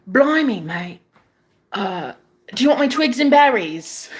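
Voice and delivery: playful mock British accent. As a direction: imitate a boyfriend's cheeky British accent. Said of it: "have his British accent on".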